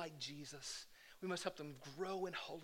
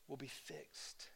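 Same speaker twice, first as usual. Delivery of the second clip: whisper; 3 semitones lower, 11 dB quieter, slower than usual. Acted. Whispered ending.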